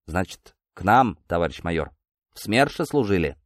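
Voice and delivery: toned-down, polite inquiry; respectful. Acted. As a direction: ask a superior officer with careful respect. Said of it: "совсем иным уважительным тоном".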